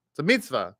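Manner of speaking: MITZVAH as "meets-VAH", Israeli style; Israeli pronunciation. Shown as a demonstration. Teacher showing how an Israeli says mitzvah, Israeli accent. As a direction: say mitzvah as an Israeli would, long ee. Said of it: "They're gonna say it more like mitzvah".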